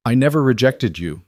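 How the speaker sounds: I never rejected you, every word set down separately; each word deliberate. A narrator's reading. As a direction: lean on "never", lay each word down with weight. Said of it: "each word deliberate".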